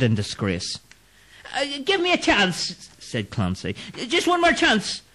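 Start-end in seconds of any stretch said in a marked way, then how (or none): 1.5-5.0 high pleading voice; begging. Acted. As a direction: plead for one more chance. Clancy begs for mercy.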